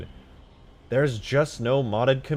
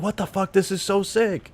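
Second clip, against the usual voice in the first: much higher, wide-eyed disbelief; amazed gamer quote; 9 semitones higher than usual. Retold or imitated. Streamer voicing a newcomer amazed by modded maps. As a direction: squeal it like a player seeing mods. Mimicking an amazed new player.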